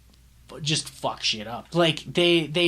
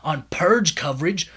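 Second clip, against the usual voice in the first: whispered panic; 4 dB louder than usual. Retold or imitated. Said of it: "the phone call plays out like this".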